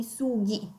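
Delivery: SUGHI with a hard g, as in "go". Shown as a demonstration. Teacher showing learners the plural, hard g in "sughi". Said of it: "mantenere il suono duro della G".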